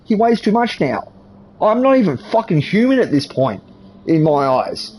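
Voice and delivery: sustained high-pitched angry ranting. Real, not acted. Man rants to interviewer about his back, high and angry. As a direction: vent it all, voice held up high.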